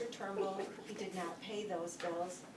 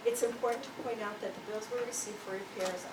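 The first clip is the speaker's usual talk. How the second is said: projecting louder for the back row; speaking louder; 4 dB louder than usual. Real, not acted. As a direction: raise the voice so the room hears. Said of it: "I can't hear anything".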